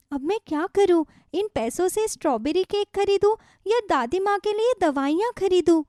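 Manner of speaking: put-on a young girl fretting to herself; childlike inner voice; little girl thinking. Shikha's inner thoughts.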